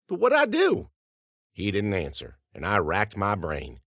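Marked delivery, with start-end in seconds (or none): 0.1-0.9 high-pitched, bewildered protest. Acted. Student to vice principal who won't explain, protesting. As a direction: protest your innocence, pitch shooting up.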